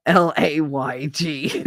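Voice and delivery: slow spelled letters L A Y G; spelled leg. Shown as a demonstration. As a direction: spell it out slowly like a lesson. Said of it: "to me, it's a leg".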